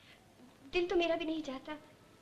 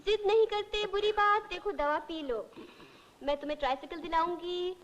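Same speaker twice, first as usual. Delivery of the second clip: put-on playful mothering of a little boy; coaxing a child. Secretary treating old patient as a child, playful coaxing. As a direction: sweet-talk him like a toddler. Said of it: "जरा मुझसे प्यार से मेरी मिन्नत समाजत करके".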